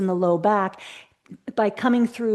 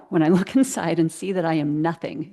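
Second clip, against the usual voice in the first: laughing at a slip; 2 semitones lower than usual. Real, not acted. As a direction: quote restarted with a laugh breaking through after inside. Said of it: "excuse me".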